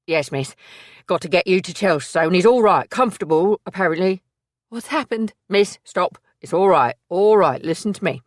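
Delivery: he has run all the way to find her; Billy the loyal assistant. Acted. Billy to Maisie after running, panting relief.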